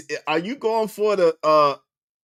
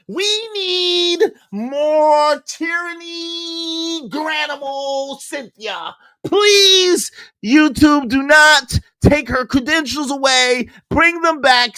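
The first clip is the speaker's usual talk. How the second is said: mock crying plea; 6 semitones higher, 3 dB louder, slower than usual. Fake crying plea to YouTube.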